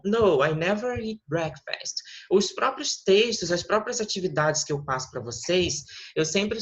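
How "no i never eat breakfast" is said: No, I never eat breakfast said slowly and clearly; teacher modelling No, I never eat breakfast; slow model sentence. Shown as a demonstration. Teacher modelling the answer slowly for the student. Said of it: "Então".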